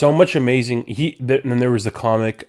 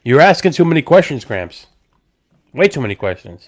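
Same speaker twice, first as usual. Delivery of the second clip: put-on teasing, scolding a nosy old man; louder mock telling-off; 4 semitones higher, 6 dB louder than usual. Teasing friend as grandpa.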